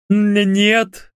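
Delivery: high, stammering frightened no; stammered admission. A narrator's reading. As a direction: stutter out the confession. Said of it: "признался тот".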